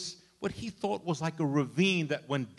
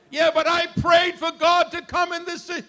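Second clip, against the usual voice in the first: high, loud mock protest; whiny objection; 12 semitones higher, 10 dB louder than usual. Imitating a believer complaining to God about the prayer, high and whiny. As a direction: whine the complaint back at God. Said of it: "imitating complaining believer".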